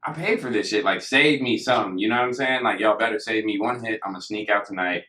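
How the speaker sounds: mildly miffed, pleading your case to friends; playfully aggrieved protest; retold annoyance. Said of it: "I was mad, though".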